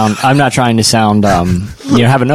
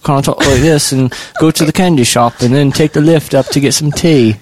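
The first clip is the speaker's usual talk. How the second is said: higher, stereotyped British accent; mock British dialect; 3 semitones higher than usual. Shown as a demonstration. Co-host showing his assumed British dialect, mock British accent. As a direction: put on a generic British accent. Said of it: "it was just all one large dialect".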